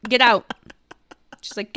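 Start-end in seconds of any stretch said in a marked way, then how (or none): 0.1-0.5 retold yelling. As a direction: imitate a shop lady throwing people out. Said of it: "there's a lot of more yelling".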